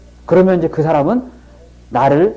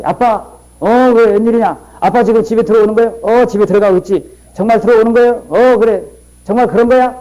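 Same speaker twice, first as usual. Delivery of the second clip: acting out son and father call; 5 semitones higher than usual. Father and seven-year-old son on phone.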